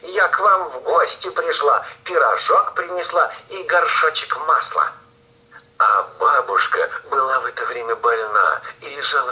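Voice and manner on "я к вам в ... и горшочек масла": put-on wolf keeping up a high girl's voice; thin voice. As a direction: stay sweet and high, pretending. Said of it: "тоненьким голосом".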